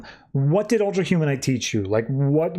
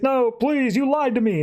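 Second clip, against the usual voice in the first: put-on high childish voice, far higher than his own; kid voice; 10 semitones higher than usual. Recapping the comic, voicing young John as a child. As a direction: pitch it up like a sulky little boy.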